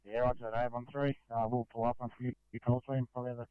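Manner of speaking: tinny two-way radio transmission; crackly military radio. Real, not acted. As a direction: voice through a crackly handheld radio. Two-way radio traffic, far timbre.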